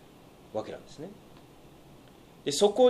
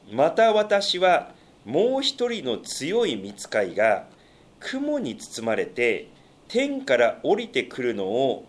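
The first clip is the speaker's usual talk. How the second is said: slow, solemn Bible reading; scripture reading; 2 semitones higher than usual. Acted. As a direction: read the passage with measured gravity. Reads scripture aloud.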